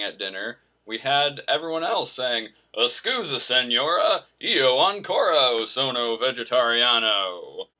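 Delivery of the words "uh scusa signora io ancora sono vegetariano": mocking fellow travellers ordering vegetarian; mock bad Italian accent. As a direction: ham up clumsy American Italian. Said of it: "I'm just being a jerk".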